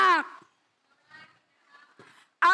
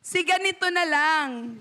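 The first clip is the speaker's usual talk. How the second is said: nervous plea. Retold or imitated. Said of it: "Sino yung gano'n magsalita kay Lord?".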